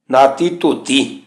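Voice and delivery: ਧੋਤੀ slowly, with a pressed dh; pressed dh sound. Shown as a demonstration. Teacher correcting how people recite it, slow pressed dh. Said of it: "ਧੋਤੀ ਧੱਦੇ ਦੀ ਆਵਾਜ਼ ਦਬਾ ਕੇ".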